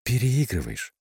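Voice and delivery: mildly stern. A narrator's reading. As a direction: chide with a touch of strictness. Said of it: "сдавленный смешок и строгое". (слегка строго)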